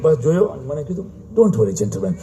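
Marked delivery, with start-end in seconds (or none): 1.4-2.1 slow, deliberate announcer English; lightly mocking Chinese staff English; mock airline staff. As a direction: drawl out the airport announcement.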